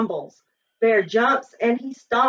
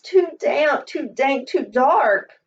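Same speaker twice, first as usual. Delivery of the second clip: squeaky mouse; 2 semitones higher than usual. Acted. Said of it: "Mouse squeaks".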